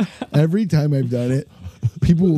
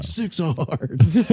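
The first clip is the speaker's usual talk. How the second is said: slow, drawn-out card call; pro wrestling announcer; 2 semitones higher, much slower than usual. Shown as a demonstration. Bingo caller announcing a card, slow monster truck voice. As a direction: stretch each word like a wrestling announcer. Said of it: "It's like really pro wrestling".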